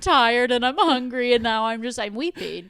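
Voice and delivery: hammed-up weepy meltdown, loud and high; mock crying. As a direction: wail through a retold breakdown, half laughing. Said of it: "I just started crying for no reason".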